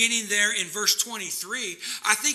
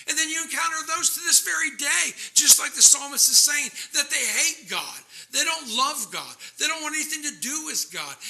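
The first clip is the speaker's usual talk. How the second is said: raised, urgent sermon voice; impassioned preaching; 7 semitones higher, 4 dB louder than usual. Real, not acted. Preacher tells of those who hate God, impassioned. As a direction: drive it home from the pulpit.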